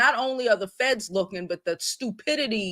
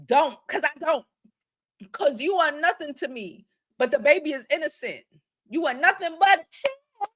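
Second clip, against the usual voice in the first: mock girlfriend scolding in broken English; imitating her broken English; 7 semitones higher than usual. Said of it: "in her broken English".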